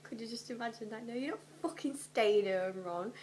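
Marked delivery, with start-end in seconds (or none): 1.1-3.1 scolding mum. Acted. Voicing Mrs Weasley scolding.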